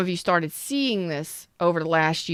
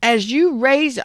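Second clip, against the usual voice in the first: high, raised voice; loud outburst; 5 semitones higher, slower than usual. Real, not acted. Fired-up reader urging viewers on, loud. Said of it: "that was loud".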